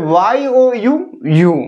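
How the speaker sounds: ওয়াই ও ইউ as letters, then ইউ as one word; letters first, whole sound after; spelled, then read. Shown as a demonstration. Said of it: "পড়তে হবে".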